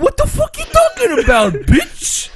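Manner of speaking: very high, screechy mock New York voice; over-the-top shrieking New Yorker; Jimmy. Friend parodying a dub character, shrieked New York accent. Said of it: "I'm Jimmy 'cause I talk like this".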